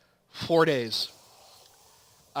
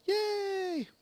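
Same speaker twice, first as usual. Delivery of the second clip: cheer; 5 dB quieter than usual. Real, not acted. Quest done, cheering.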